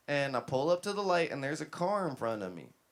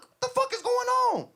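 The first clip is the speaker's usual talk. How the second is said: loud, high-pitched yelled demand; furious yelling; 8 dB louder than usual. Retold or imitated. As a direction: yell it in outraged disbelief. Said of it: "I got out the car yelling".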